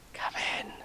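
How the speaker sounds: soft, voiceless whisper. Acted. Hiding from the postman by the wall, whispered. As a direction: whisper the invitation under your breath. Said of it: "you could whisper".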